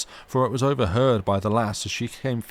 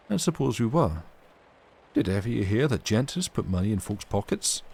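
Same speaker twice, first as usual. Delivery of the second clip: softened a little. Acted. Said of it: "softened a little".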